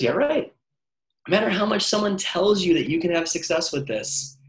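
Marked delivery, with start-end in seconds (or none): 0.0-0.5 scoffing inner voice. Retold or imitated. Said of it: "And he just says".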